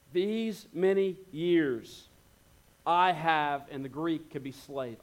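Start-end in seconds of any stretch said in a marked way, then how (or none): 0.1-3.7 resentful. Retold or imitated. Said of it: "Listen to the tone".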